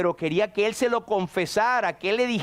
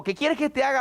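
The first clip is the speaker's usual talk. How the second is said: innocent question; 6 semitones higher, faster than usual. Retold or imitated. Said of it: "inocente, como que sin sentido".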